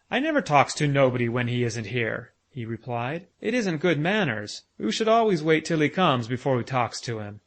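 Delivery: lightly voiced little boy, earnestly explaining; a hint of a small boy lecturing on manners; small child Bruno.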